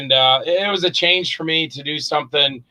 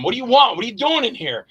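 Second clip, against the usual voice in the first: higher, gruff demanding boss snapping at an intruder; hard-ass boss; 8 semitones higher, faster than usual. Retold or imitated. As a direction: bark at the kid who walked in. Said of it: "I changed it from".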